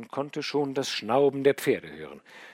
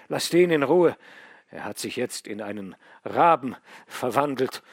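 louder, higher, feverish commands; feverish insistence; 4 semitones higher, 9 dB louder than usual. A narrator's reading. Dying son ordering father to send for Odinzow, loud and feverish. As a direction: rattle off orders through the fever.

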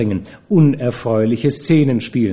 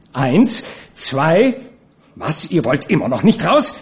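threatening countdown; 4 semitones higher than usual. Acted. Counting down to throw men out.

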